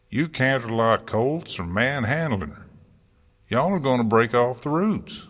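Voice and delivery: worried farmer barking at the gardeners; fretsome bark. A narrator's reading. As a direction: bark it out, fretting over the tree. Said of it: "Applejack's fretsome voice occasionally barked an order".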